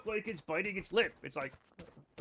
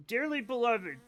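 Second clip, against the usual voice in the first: mock preacher; 4 semitones higher than usual. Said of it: "I could give it a go".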